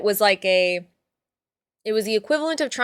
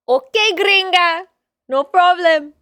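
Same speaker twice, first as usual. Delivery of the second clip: higher, louder, slow teasing server reply; mock server; 8 semitones higher, 8 dB louder, slower than usual. Puerto Rican server teasing the American customer, mocking. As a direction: brush off the gringa with a mocking grin. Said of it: "they're always like".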